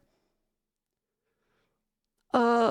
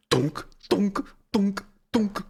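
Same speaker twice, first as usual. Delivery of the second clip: spaced, even mock thunks; imitated Roomba thuds; slower than usual. Streamer mimics the Roomba hitting the fucking door, imitated thuds. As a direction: imitate a machine bumping repeatedly. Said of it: "As the Roomba is going".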